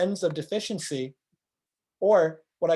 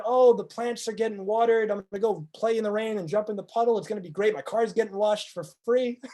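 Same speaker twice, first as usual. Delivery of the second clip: higher, brighter mock delight; 4 semitones higher than usual. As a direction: bubble over about the rain like a kid. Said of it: "the person who's loving the rain".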